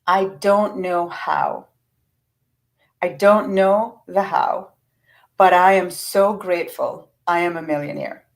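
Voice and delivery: gentle, grateful affirmation with long pauses; slow, sincere affirmation. Shown as a demonstration. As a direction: say it like you truly mean it. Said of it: "what I would affirm is".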